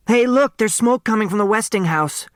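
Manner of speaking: put-on high, bright girl calling out her news; a kid bursting in to announce something; excited young girl.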